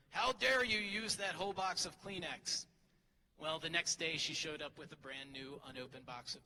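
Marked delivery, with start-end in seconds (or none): 0.1-2.6 sarcastic. Retold or imitated. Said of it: "I sarcastically said to her".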